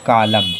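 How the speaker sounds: कालम said "kaalam" with no final N; model pronunciation. Shown as a demonstration. Teacher reads out कालम to the students. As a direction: drop the N in कालम. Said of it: "तो इसे क्या पढ़ेंगे?".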